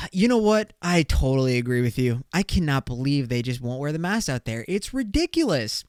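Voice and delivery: bright, overly agreeable fake cheer; smooth it over with forced enthusiasm; sugary agreement to dodge a fight. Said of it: "and I was just like".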